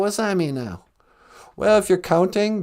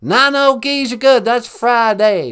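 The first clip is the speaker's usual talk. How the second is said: George W. Bush impression; 3 semitones higher, 5 dB louder than usual. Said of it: "George W. Bush".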